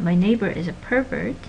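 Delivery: pervert said PER-vert, stressed on the first syllable; noun stress in pervert. Shown as a demonstration. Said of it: "with nouns the stress is in the first syllable".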